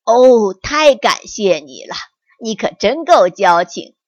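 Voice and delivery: mildly grateful tiger. Acted. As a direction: tiger thanking his friend. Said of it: "老虎感激地说道".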